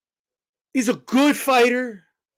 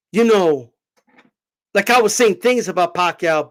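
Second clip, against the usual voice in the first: imitating Mayweather; slower than usual. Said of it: "Mayweather literally goes like this".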